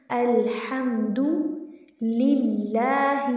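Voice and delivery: للہ with a thin, light lam after the kasra. Shown as a demonstration. Teacher drills students on the light lam of للہ. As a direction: stretch للہ slowly, lam kept light. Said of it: "لام سے پہلے زیر آ گئی ہے تو اس کو باریک".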